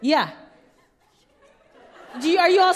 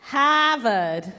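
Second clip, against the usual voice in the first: short Boston accent try; 3 semitones lower than usual. Shown as a demonstration. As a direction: drop the r, Boston style. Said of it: "I wanna hear you".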